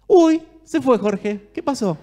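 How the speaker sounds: hammed-up surprise; mock surprise. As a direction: act amazed that the cook has vanished. Mock surprise, Jorge vanished.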